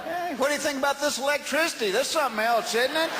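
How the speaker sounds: wide-eyed hick amazed by electricity; rowdy redneck. Retold or imitated. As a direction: play a gawking country bumpkin. Mocking Louisiana people about electricity.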